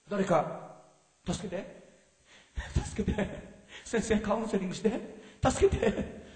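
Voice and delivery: 小声で笑い混じりに助けを求める; 弱々しく大げさに泣きつく真似; 悩んでる人の真似. Retold or imitated. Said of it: "これが悩んでる人ですよ". (会衆に悩む信者を演じて見せる、笑い混じりの小声で)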